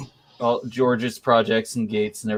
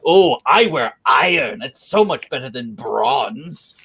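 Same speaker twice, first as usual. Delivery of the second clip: mock a puffed-up bearded braggart; pompous fellow. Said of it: "that pompous, puffed-up fellow".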